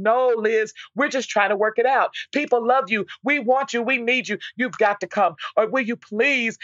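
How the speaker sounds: lightly imitating a friend begging through tears; tearful pleading. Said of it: "she called me right back in tears".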